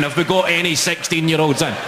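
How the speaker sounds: mild mock shout, near normal pitch; retold shout. Comic repeating his question to the audience, mildly mocking his shout. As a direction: quote your own shout, only half projected. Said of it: "when you hear yourself shouting".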